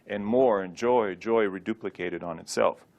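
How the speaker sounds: normal talking voice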